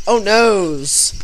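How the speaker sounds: mock panic at a big hit; mock dismay. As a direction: whine it like a cartoon. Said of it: "and I'm like".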